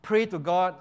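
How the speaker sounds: high, loud mock pleading, fading at the end; hammed-up begging for mercy; begging to Moses. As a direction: grovel to Moses, exaggerated. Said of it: "and then".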